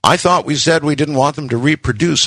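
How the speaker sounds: high, mildly indignant protest; outraged accusation. A narrator's reading. Husband accuses wife over breeding lizards, mildly outraged. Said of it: "I was equally outraged".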